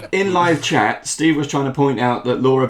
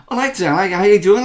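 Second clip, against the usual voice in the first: lilting, raised Geordie character voice; Oboe's Geordie accent; 5 semitones higher, faster than usual. Shown as a demonstration. Player demonstrating a requested character accent, Geordie. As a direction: put on a rough Geordie lilt. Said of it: "oboe is like that".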